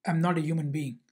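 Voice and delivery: a touch of hurt anger; retold angry comeback. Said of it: "Unsho gets even more angry".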